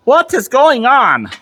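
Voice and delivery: surprised. Real, not acted. The ball joint goes in crooked.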